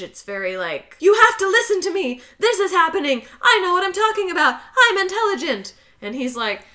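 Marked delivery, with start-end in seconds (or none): 1.0-5.7 high, fast, insistent imitation; mock an edgy woman demanding to be believed; on edge. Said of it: "she always seems on edge".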